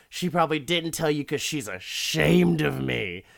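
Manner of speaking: imitating a resentful husband; acted pissed-off rant. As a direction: play a mildly heated, aggrieved drunk rant. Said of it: "already talking a bunch of shit".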